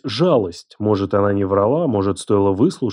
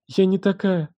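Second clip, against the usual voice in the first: put-on higher pleading girl's voice; pleading young woman; 8 semitones higher than usual. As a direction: plead as the cornered girl. Alyona pleads her innocence.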